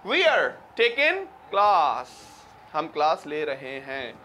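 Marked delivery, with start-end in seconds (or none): 0.0-2.1 we are run into wear, taking with no g; British-style blend. Shown as a demonstration. Teacher contrasts the British version with the Indian one. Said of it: "वो कहते हैं".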